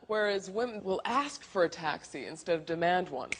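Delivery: ordinary talk, nothing marked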